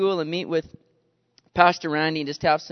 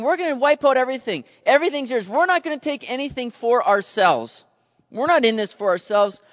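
loud, higher-pitched acted vow; zealous declaration; 7 semitones higher, 6 dB louder than usual. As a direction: declare it eagerly, as the people pledging all to God. Acting out Israel's zealous vow.

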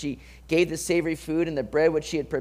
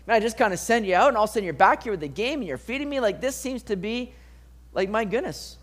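higher-pitched, incredulous questioning; mock suspicious; 5 semitones higher than usual. Preacher voicing Isaac doubting his son's quick hunt, mock suspicious. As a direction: question it like a father who smells a trick. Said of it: "Isaac's a little suspicious of".

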